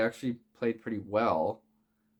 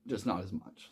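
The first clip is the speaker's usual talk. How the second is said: talking through hiccups; words broken by hiccups. Real, not acted. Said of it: "Sorry, I'm hiccuping".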